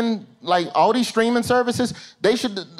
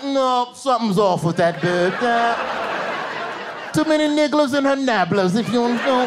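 mock British; 3 semitones higher than usual. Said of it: "they was like".

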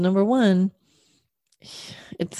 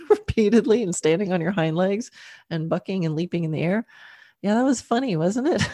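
cheerful storytelling to horse. Retold or imitated. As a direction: cheer him up with a fond memory. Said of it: "So I started telling him stories like".

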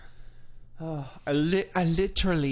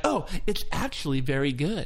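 mock millennial. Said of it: "you're like".

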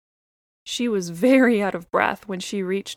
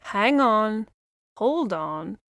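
lightly voiced chatty little bird; a hint of a busy songbird; blue jay voice.

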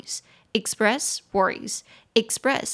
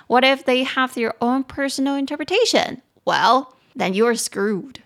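先高声追问, 再慢慢落下一句, 像抖包袱; dramatic punchline; 3 semitones higher, 4 dB louder than usual. Acted. 戏剧化地说出后果. (戏剧化地讲出糟糕的后果)

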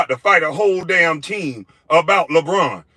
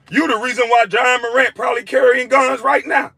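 shouting; 6 semitones higher than usual. Real, not acted. Shouted insult rant.

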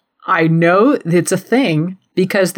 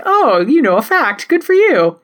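mock praise; 7 semitones higher than usual. And I was like.

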